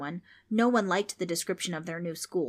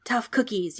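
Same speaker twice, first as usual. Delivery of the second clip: ghost yelling; 4 semitones higher, 5 dB louder than usual. Acted. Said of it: "yelled the ghost".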